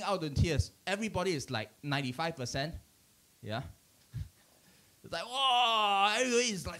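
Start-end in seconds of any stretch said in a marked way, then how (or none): 5.2-6.1 drawn-out mock crying "whoa"; a mild pretend bawl; imitated bawling. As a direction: imitate a crowd bursting into tears. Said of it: "crying, bawling".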